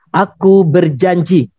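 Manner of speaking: slow, measured pledge for repeating; leading a pledge. Shown as a demonstration. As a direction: say it slowly so it can be echoed.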